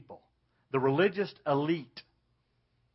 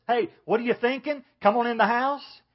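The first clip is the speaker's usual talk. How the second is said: higher, louder call across a yard; calling from a distance; 7 semitones higher, 8 dB louder than usual. Retold or imitated. Father calling his son from a distance, loud and high. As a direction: call out to someone far away. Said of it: "He didn't call from a distance".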